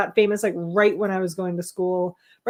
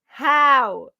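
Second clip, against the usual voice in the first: 1 incredulous; 5 semitones higher, 5 dB louder than usual. Real, not acted. Disbelief at right answer.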